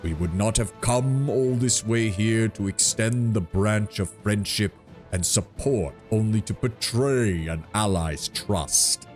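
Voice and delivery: slow, mildly offended tree giant; a hint of wounded pride, slowly; treant voice. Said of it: "a faint note of anger".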